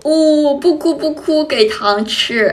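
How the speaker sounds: exaggerated coaxing of a crying child; mock soothing. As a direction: coo as if offering candy to a sobbing kid. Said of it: "疯狂安慰自家宝贝". (模仿哄哭闹小孩的语气)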